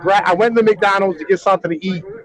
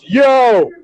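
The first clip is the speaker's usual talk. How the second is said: retold call out; 5 semitones higher, 4 dB louder than usual. Retold guy calling out.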